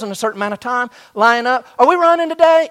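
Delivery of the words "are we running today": student asking. Retold or imitated. Student asking coach, acted.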